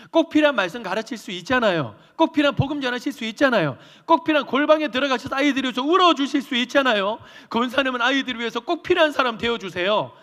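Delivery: preaching climax to the elder; passionate exhortation. Real, not acted. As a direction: urge her with rising force. Pastor's rising exhortation.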